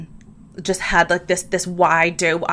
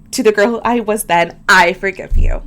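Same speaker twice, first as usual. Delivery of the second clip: heartfelt affirmation; 6 dB louder than usual. Shown as a demonstration. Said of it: "Forgive her, okay?".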